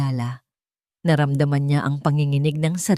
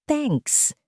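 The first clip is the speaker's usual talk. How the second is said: curt reply; 9 semitones higher, 3 dB quieter than usual. A narrator's reading. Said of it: "Maikli niyang sagot".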